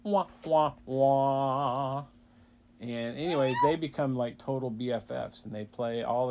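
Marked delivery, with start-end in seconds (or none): 0.0-2.0 sad trombone. Acted. Sad trombone after pun.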